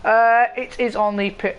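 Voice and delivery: slight crack in the voice. Real, not acted. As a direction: let the voice catch and crack. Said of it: "I had a slight voice crack then".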